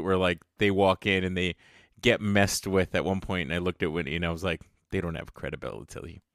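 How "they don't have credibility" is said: low, soft cartoon-ghost impression. Co-host quoting a Lonesome Ghost cartoon line, imitated cartoon voice. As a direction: put on a hushed, low cartoon voice. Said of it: "trying to say it in the voice".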